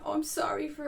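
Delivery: high, hurried-in mock apology; imitated apology. Imitates people apologizing for crying.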